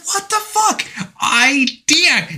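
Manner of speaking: high, strained frustrated outburst; a frustrated cry of disbelief. Retold or imitated. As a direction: blurt it out in disbelief. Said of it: "you can hear the frustration in his voice".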